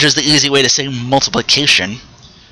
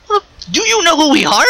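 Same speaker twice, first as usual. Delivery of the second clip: pitched-up New York tough guy, quick; Bully Ray impression. Bubba challenging the newcomers in a high New York accent. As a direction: throw it out like a brash New York brawler. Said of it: "He says it in the whole Bully Ray fashion".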